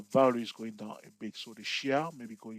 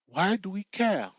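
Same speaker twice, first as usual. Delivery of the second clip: slow, raised mock trader asking why bother; dismissive question; 6 semitones higher, 4 dB louder than usual. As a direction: act out a sceptical trader brushing it off. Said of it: "they say".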